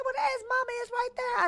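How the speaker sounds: lightly voiced dad pointing at the picture; dad's voice. Daughter imitating dad at the TV, lightly voiced and fast. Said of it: "My dad said".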